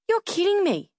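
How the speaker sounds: high incredulous disbelief; shocked you're kidding me; surprised. Acted. Stunned reply to board size.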